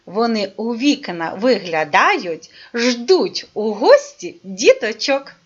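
put-on slow sing-song verse for little children; rhyme recitation. Teacher reciting a poem to kids, slow and rhythmic. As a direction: read it slowly like a nursery rhyme.

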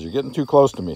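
a hint of a miffed cat; voicing the cat. Trainer voicing cat to dog, lightly voiced cat. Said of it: "The cat says".

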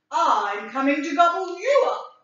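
loud, confident goat; big goat defying the troll; bold challenge. Acted. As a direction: throw the threat right back. Big goat turns the threat.

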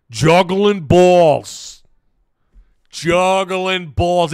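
hammed-up Italian accent, high and loud, stretched out; slow, exclaiming Italian-American coach impression. Streamer mimics an excitable Italian coach, Italian accent. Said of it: "I love doing the Italian accent".

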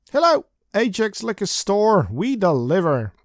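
perky phone clerk greeting; shop clerk voice. Acted. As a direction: answer brightly like a store clerk. Liquor store clerk answering phone.

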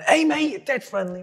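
high-pitched impression of a friendly mate; chummy mock hello; imitated friendly greeting. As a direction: greet them like a lovely new pal. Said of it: "first thing he said to me was lovely".

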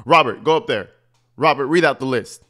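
ordering Robert around like her dog, mock-bossy; bossy commands to Robert. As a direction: bark the orders, half-imitating her. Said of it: "That's how she talks to him".

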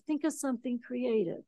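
a hushed second take of "Think of something creative"; soft echo. Retold or imitated. Retold advice, echoed softer.

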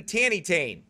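"tanny tain", imitating a child's garbled word; child's mispronunciation. Dad quoting what Amos asked for, "tanny tain" in child's wording. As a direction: repeat "tanny tain" just as the little one says it. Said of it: "don't talk like that anymore".

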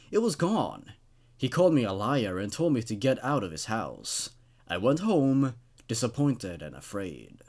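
steady storyteller read of a creepy tale; story narration. Acted. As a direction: read it like a campfire horror story. Reading a creepypasta aloud.

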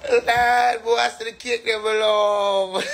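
high, drawn-out excited plea. Real, not acted. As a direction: belt out the plea, stretching the end. Repeats the exclamation louder.

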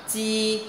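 "chi" held long on a high level tone, no puff of air; emphasized pronunciation. Shown as a demonstration. Teacher models a new letter's sound for students, emphasized pronunciation. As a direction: sound out "chi" as a drawn-out syllable. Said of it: "dấu sắc mà đọc nhấn mạnh".

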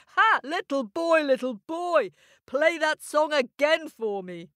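high, cheery giant's wife. Acted. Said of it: "she clapped and cheered and said".

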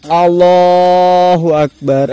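loud, drawn-out cry of shock; alarmed, stretched exclamation; startled cry. Real, not acted. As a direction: cry out to God, stretching it long. Startled by ghost sighting.

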